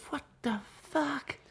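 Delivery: put-on slow, high, soft Dublin accent; drawn-out caricature Dublin accent; exaggerated Dublin accent. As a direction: stretch it out in mock Dublin. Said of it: "that level of a Dublin accent".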